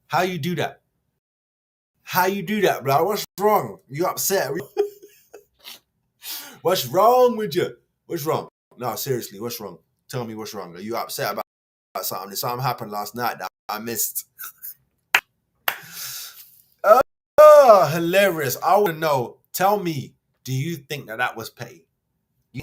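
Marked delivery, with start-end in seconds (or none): 2.0-8.5 laughing through a mock question; laughing mockery. Real, not acted. Vlogger laughing at rival fans, mocking them through laughter. 17.4-20.1 sarcastic. Real, not acted. Sarcastic about rival fans' comment.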